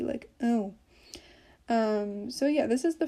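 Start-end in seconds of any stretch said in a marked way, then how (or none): 0.4-0.7 "oh" said through the nose; very nasal vowel. Shown as a demonstration. Teacher showing learners the tilde sound, very nasal "oh". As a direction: let "oh" resonate nasally. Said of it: "like, very nasally".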